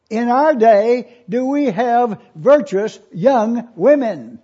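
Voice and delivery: slow, loud, pressing question; emphatic repeat. Real, not acted. Preacher asking the congregation again, slow and forceful. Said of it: "I ask it again".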